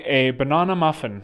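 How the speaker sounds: "banana" with long ah, ba-NAH-na; South African banana. Retold or imitated. Customer ordering at the drive-thru, "banana" as ba-NAH-na. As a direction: say "banana" with a broad open AH. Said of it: "differentiate between banana and banana".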